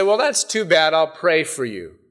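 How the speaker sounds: a light, offhand shrug of a reply; passive shrug. Retold or imitated. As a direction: brush it off lightly, as if it doesn't matter. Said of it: "very passively just said".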